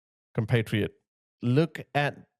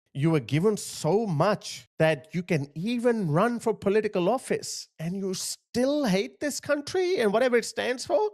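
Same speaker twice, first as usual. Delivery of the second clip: higher-pitched, incredulous rant; real indignation, addressed straight at the culprit; indignant; 6 semitones higher than usual. Real, not acted. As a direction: let the indignation climb in pitch. Indignantly addresses the man in the clip.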